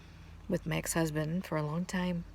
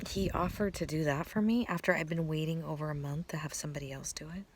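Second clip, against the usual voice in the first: choked-up whisper; real emotion, barely voiced; moved to tears, speaking of his kindness; emotional; 4 dB quieter, faster than usual. Real, not acted. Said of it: "here I'm gonna get emotional".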